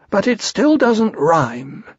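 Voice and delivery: high, slow bear voice; Pooh's objection. Acted. Pooh correcting the narrator's verse, slow high objection.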